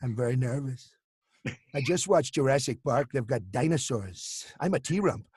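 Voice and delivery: a hint of fretful Trump; lightly voiced Trump fretting at night; nervous Trump. Trump phoning Mike Pence at night, mildly nervous. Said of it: "you'd phone up Mike Pence".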